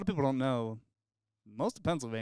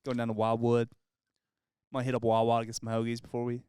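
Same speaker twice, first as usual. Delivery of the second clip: put-on East Pennsylvania accent. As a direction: lean into the East Pennsylvania sound. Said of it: "that East Side Pennsylvania sound".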